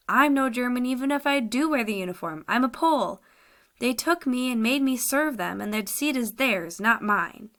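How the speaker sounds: desperate prisoner pleading his case. Acted. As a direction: insist you're not German, voice pushed up. Captive pleads his innocence.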